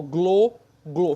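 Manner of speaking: "glo" isolated, with a closed "oh". Shown as a demonstration. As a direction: say "glo" by itself, vowel rounded and closed.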